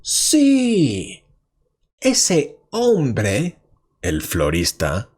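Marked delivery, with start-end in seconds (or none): 0.0-3.6 high, loud cry of joy; excited shout. Acted. The businessman shouts with joy about the florist, high and loud. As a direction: shout it out, thrilled. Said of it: "Y él grita".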